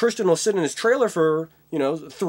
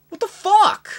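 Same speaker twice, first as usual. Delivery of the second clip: high, loud furious yell; mock outraged yell; 14 semitones higher, 7 dB louder than usual. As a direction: bellow it like a raging actor. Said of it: "most likely what was missed was".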